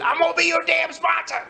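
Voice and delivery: high mock voice for the sponsor; mock the sponsor's declaration; imitating the new sponsor claiming him; gruff sponsor.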